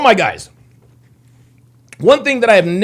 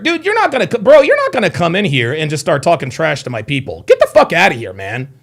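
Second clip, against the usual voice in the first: heated telling-off. Real, not acted. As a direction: throw him out of the chat. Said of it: "Don't let these idiots get you heated".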